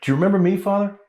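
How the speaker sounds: mock menace. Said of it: "just to scare him".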